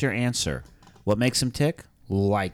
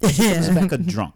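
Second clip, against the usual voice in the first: put-on louder Caribbean accent on a drunk; 6 semitones higher, 5 dB louder than usual. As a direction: stress a drunk in a Caribbean lilt. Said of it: "That's my Caribbean accent".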